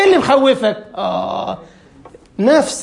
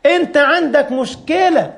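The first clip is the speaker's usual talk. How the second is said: inner voice; 5 semitones higher, slower than usual. Retold or imitated. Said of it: "نفسه بتقول له".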